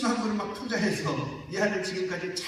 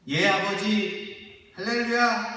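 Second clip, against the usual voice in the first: mock eager reply; 5 semitones higher, 7 dB louder, slower than usual. Mock cheerful obedience of Jesus.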